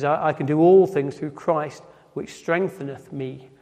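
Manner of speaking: put-on old-fashioned King James wording, read out. Shown as a demonstration. Preacher reading the King James verse to the congregation, archaic. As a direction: give it the old scripture ring. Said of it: "We don't quite speak like that now".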